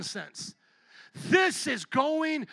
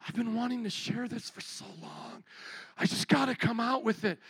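soft, mocking wife's confession; mock whiny confession; 2 semitones lower, 5 dB quieter than usual. Pastor mocking a wife confessing, softly. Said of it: "a wife starts to talk like this".

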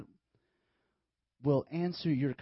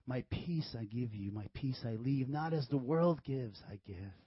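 gentle Christ; 4 semitones lower, 4 dB quieter than usual. Retold or imitated. Christ speaking peace.

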